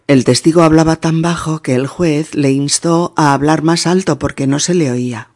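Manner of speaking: quick, in one continuous run; fluent example reading. Shown as a demonstration. Teacher repeats the example for learners, fast and fluent. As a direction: run the whole sentence together briskly.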